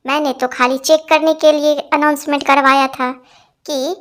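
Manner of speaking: a half-shout across the crowd of women; shouted call. Acted. Vandana calling her husband back to the katha, shouting. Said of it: "वंदना भाभी चिल्लाई".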